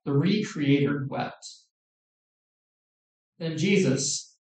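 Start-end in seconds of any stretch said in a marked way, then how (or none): 0.1-1.5 slower, letting each word land; slow weighty repeat. Shown as a demonstration. Preacher repeating to the congregation, slow and weighty. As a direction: let it sink in, slow. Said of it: "repeated slower for weight".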